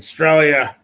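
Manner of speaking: Australia said in an Australian accent, stress on stra; Australia with an Aussie twang. Shown as a demonstration. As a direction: mimic the Aussie way of saying Australia. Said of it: "they throw the Australia accent".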